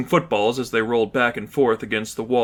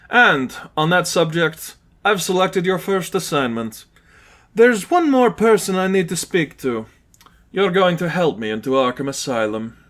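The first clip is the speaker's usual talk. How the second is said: scheming villain; 6 semitones higher than usual. Acted. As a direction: unveil the plan. Lipov giving assignment.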